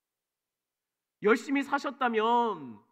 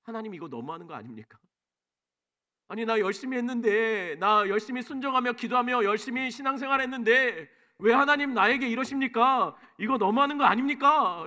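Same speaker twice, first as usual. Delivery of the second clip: frustrated complaint to God; 4 semitones higher, 5 dB louder than usual. Retold or imitated. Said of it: "그때 드는 생각이 있죠".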